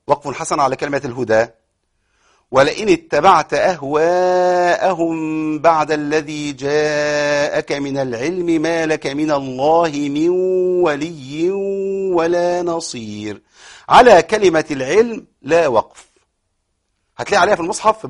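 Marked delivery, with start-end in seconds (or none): 2.5-13.4 slow drawn-out tajweed recital; Quran recitation. Shown as a demonstration. Teacher reciting the verse for the class. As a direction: recite with long held vowels.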